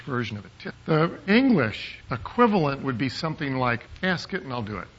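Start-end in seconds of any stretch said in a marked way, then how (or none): 4.0-4.9 understated. Shown as a demonstration. Understated literal version of verse.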